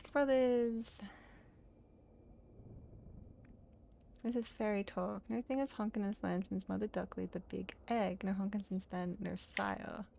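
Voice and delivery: put-on quaint, lightly accented archaic voice; solemn tree character. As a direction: play an earnest tree under questioning. Voices trees answering the cutter.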